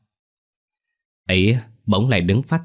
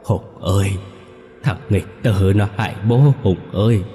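sobbing wail; 3 semitones higher, 3 dB louder than usual. A narrator's reading. Ghost father pleading to son Hùng, sobbing. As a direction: wail brokenly, calling out for help. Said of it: "Lão khóc nấc lên từng tiếng".

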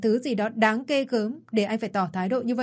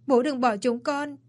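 higher, begging cry; pleading wail; 4 semitones higher than usual. Acted. Son begging his dead father not to leave, pleading wail. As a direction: plead with him through grief. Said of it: "ôm chầm lấy bố mà gào lên".

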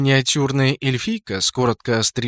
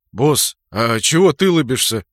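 displeased; 6 dB louder than usual. Acted. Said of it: "недовольно спросил Кракен".

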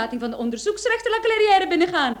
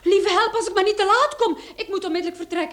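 amused hurry; 5 semitones higher than usual. Acted. Hurried, amused exit.

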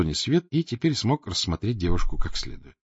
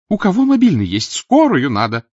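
high, loud urgent woman's call; 9 semitones higher, 8 dB louder than usual. Acted. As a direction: call for help over the crowd. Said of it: "а женщина". (женщина зовёт на помощь)

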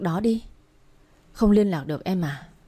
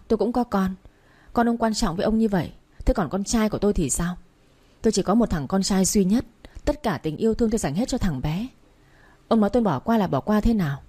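a touch of furious yelling, raised voice; shouting angrily; 2 semitones higher than usual. Acted. Father of a kidnapped son confronting the kidnapper's husband, mildly shouted. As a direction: confront him, accusing and bitter. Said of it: "lên quát".

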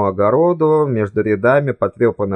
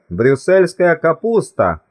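higher, drawn-out note of encouragement; upbeat reassurance, pitched up; encouraging; 6 semitones higher, slower than usual. A narrator's reading. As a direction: cheer them on, slow and lifted. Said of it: "ободряюще сказал тот".

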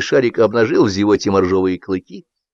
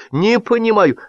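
high-pitched confused protest; perplexed, raised voice; baffled outcry; 13 semitones higher than usual. A narrator's reading. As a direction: exclaim in bewilderment. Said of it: "вскрикнул Шашков".

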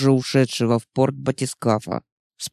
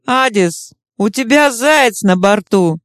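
laughing shout; 5 semitones higher than usual. Acted. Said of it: "со смехом крикнула Чума".

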